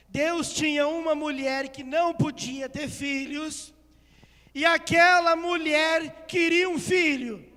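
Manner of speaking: loud, drawn-out preacher's delivery; impassioned preaching. Acted. Preacher retelling the baby in the basket to church, impassioned preaching. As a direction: proclaim it with big stressed words.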